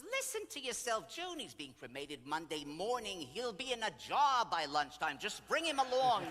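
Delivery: loud, high, building to a punchline; emphatic persuasion. Retold or imitated. Golden girl urging June to bring ashes along, emphatic. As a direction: imitate a bossy friend talking sense, slowing for effect. Friend reasons loudly with June.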